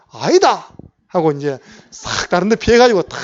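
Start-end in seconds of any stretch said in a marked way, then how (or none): 0.1-0.7 Gyeongsang denial. Retold or imitated. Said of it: "경상도 아닙니까".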